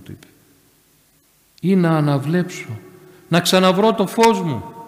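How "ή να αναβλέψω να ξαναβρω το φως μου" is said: imitated plea, growing louder and higher; unwavering faith. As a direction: ask boldly, without any doubt. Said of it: "με ακράδαντη πίστη, χωρίς καμία αμφιβολία".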